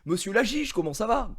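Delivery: high, bright-pitched mock greeting from the banker; chummy banker greeting. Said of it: "il fait".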